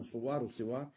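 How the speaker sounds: صوار وصوار: الأولى صُوار بالضم والثانية صِوار بالكسر; قل صوار وصوار، الصاد مضمومة ثم مكسورة; تين بضم ثم كسر. Shown as a demonstration. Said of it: "الصوار بكسر الصاد وضمها". (صوار وصوار: صُوار ثم صِوار)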